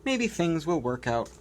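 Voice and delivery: lightly voiced penguin, from shrill to thoughtful. Penguin voice resumes.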